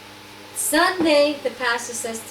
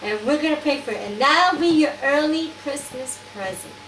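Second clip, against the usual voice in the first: imitated Dutch accent, higher pitch; Inga; 4 semitones higher than usual. Dutch friend promising a Christmas present, imitated accent. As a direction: offer a gift in a Dutch accent. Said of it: "a Dutch accent".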